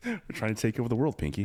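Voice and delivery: Brain impression. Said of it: "There we go".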